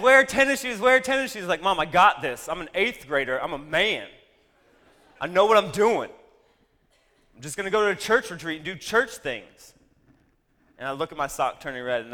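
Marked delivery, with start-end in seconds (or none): 0.0-1.5 loud, high repeated nag; mock mom nagging at full volume; mom's nagging warning. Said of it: "She warned me". 1.6-9.7 cocky eighth grader brushing off mom; cocky teen. Retold or imitated.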